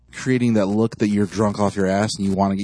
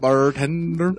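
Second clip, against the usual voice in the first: higher-pitched imitation of an English accent; mock English accent; 5 semitones higher, much slower than usual. Friend mimicking the drinker's call to the bartender, mock English accent. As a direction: echo it in a put-on English accent. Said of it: "You from England? All of a sudden?".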